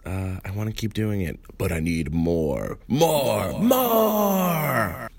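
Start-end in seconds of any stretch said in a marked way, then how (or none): 1.6-5.1 rising more, more, more; escalating begging; building plea. Acted. Pleading for more reviews.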